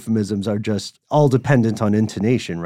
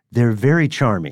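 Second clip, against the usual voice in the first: knowing euphemism. Shown as a demonstration. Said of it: "the euphemism that I like to use".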